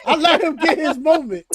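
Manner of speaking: chuckling through the words; amused repeat teasing a friend's emotional rant; laughing. Real, not acted. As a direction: let the laugh leak into the line. Repeats line, now laughing.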